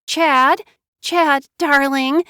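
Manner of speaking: high, slow pleading whimper. Acted. Wife waking her husband, high slow whimper. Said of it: "she whimpered".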